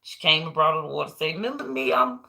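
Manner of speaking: a touch of hoping to be remembered; old Kizzy hopeful. Retold or imitated. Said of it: "She said".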